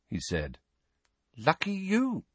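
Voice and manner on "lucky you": cool, high-pitched retort. A narrator's reading. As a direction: answer coolly, without raising volume. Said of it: "said Ginny coolly".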